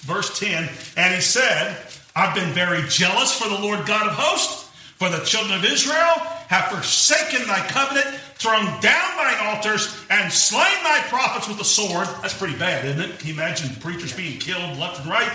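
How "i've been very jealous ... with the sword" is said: a little attitude. Retold or imitated. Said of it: "he may have said this with a little attitude".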